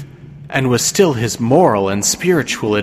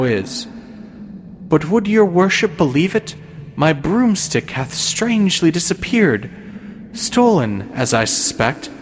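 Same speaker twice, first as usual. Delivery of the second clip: imperious plummy grande dame; 4 semitones higher than usual. Acted. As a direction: play a haughty pious old lady. Goody Cloyes tells of broomstick.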